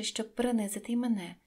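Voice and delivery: plain reading voice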